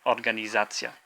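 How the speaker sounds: "organizacja" with za clearly stressed. Shown as a demonstration. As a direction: lean on the za in "organizacja". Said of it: "the za part".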